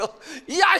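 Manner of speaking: high mock-angry yell breaking into laughter; irritated outburst. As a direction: act out a flash of temper, half laughing. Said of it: "막 신경질을 확 내버렸어". (신경질 내는 척 외치기)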